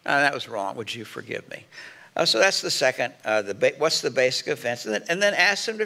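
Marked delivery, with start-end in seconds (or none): 0.0-1.6 a gentle, humble apology; sincere apology. Shown as a demonstration. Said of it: "you're gonna say something like".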